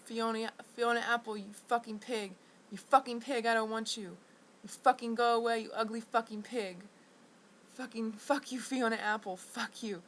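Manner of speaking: mild mock furious yell; venting at a singer she doesn't want to hear; angry yell. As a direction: curse her out, half shouting. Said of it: "I screamed it".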